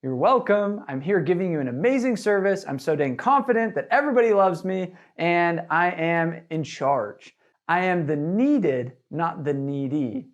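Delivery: a rep channeling Maui's swagger at the door; cocky confidence. Shown as a demonstration. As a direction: own the doorstep like Maui. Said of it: "same attitude that Maui had".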